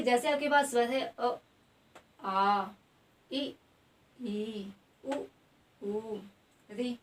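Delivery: each vowel sounded alone, short against long; vowel demonstration. Shown as a demonstration. Teacher sounds out the vowels for students, one by one. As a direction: say अ, आ, इ, ई one by one, with pauses between. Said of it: "आप उच्चारण करके एक एक करके देखो".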